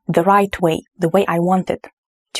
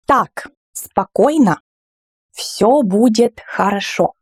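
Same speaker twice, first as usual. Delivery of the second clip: calming phrase. Shown as a demonstration. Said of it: "to attract the children's attention".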